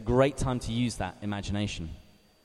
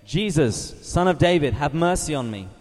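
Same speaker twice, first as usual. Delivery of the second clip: crying out; 2 semitones higher, 3 dB louder than usual. Acted. Blind beggar calling out to Jesus, louder plea. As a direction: call out to Jesus for mercy. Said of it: "he began to cry out".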